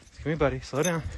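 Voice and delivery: softly telling the dog off; quiet. Real, not acted. Talking to her dog.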